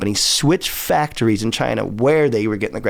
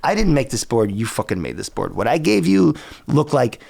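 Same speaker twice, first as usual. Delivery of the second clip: pitched-up angry rant at the factory; retold rant; 5 semitones higher than usual. Telling off the board factory, heated rant. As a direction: vent it like you're back on that call. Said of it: "It's like".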